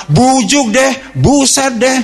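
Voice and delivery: high, slow drawn-out groan of annoyance; hammed-up frustrated player; mock exasperated gamer. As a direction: whine like a kid who just lost.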